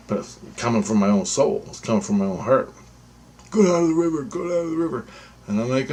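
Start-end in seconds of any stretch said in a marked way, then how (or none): 3.5-5.1 insistent inner voice. Retold or imitated. The inner urge voiced again.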